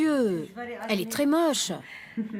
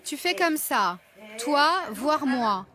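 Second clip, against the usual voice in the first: over enunciating; slower than usual. Real, not acted. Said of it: "lui parle comme à un enfant".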